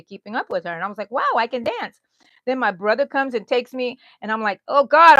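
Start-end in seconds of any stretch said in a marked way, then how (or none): 1.1-2.0 higher, louder retold delight; amazed. Woman dancing with her sister, amazed. 4.7-5.2 loud, higher retold cry of dismay; mock alarm. Woman grabbed by her dancing brother, mock alarm.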